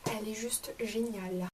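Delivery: soft whisper, voice dropped out; whispered praise. Real, not acted. Whispering to viewers how great the candle is. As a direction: breathe it like a secret.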